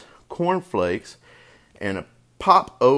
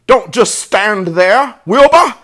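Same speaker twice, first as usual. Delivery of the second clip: high, loud, urgent goose shout; shrieked coaching, pitched way up; goose crying orders; 11 semitones higher, 10 dB louder than usual. A narrator's reading. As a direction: take command as a frantic goose. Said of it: "cried the goose".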